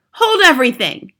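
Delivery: high, loud witch's cry; shrieking. A narrator's reading. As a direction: shriek it across a ballroom. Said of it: "Her shrieking voice echoed".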